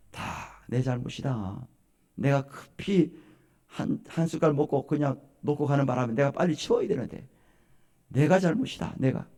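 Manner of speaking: understated, forgiving father-in-law; acted calm apology, a little subdued; gentle self-blame. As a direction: take the blame kindly, without any scolding.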